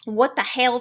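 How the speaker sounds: catchphrase with a Southern "hail" for "hell"; Southern-style hell. Retold or imitated. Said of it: "we spell it H A E L".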